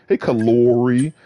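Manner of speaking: put-on a light Virginia accent greeting, Kalori; imitating Virginia accent. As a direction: mimic Virginians calling out Hey, Kalori. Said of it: "people with the accent who says Kalori".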